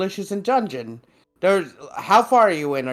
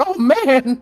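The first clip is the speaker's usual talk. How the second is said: mock disappointed; 11 semitones higher, 7 dB louder than usual. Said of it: "they're like".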